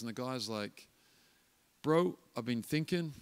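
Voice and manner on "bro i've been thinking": lightly put-on New Zealand accent. Gang leader talking baptism with his mentor, shaky New Zealand accent. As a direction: imitate a Kiwi gang member, not very well. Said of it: "This is my New Zealand accent, not very good".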